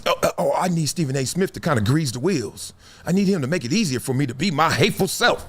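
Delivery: mocking a bigot, quick and low at first; hammed-up fake plea from a hateful person; mock racist voice. Vlogger mocking a hateful racist asking for help, in a mock voice.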